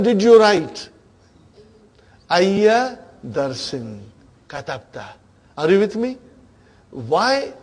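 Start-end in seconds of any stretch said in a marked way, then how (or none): 2.3-5.1 slow model answer. Shown as a demonstration. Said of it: "teacher models the answer slowly".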